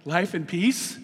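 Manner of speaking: slow, rising invitation with a laugh; inviting. Shown as a demonstration. Pastor coaxing the church toward life, slow and inviting. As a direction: coax them toward it. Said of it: "don't you wanna be on that side?".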